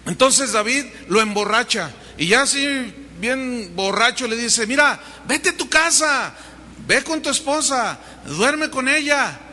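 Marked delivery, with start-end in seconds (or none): 4.7-9.4 a hint of a scheming king; pushy urging. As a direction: press him to go home. David urges drunk Urías.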